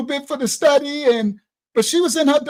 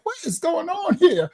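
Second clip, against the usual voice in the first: amazed troll; 7 semitones higher than usual. Retold or imitated. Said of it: "June was like".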